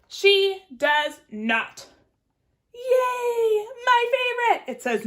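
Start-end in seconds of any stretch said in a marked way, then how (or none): 2.7-4.7 high, loud delighted shout; excited cheer. Acted. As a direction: squeal with joy. Cheering for garden.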